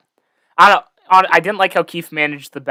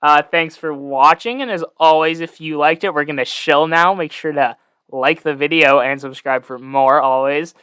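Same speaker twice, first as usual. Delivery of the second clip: YouTuber voice. Shown as a demonstration. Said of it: "I've been preparing my YouTuber voice".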